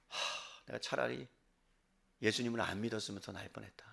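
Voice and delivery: low, hushed sigh of regret; acted disillusionment, voice sunk down; quiet regret. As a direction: think it aloud, very soft and low. Voicing a believer's regretful inner thought.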